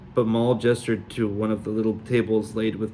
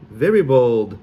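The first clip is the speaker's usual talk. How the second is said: put-on Sully accent; 6 dB louder than usual. Fake fortune.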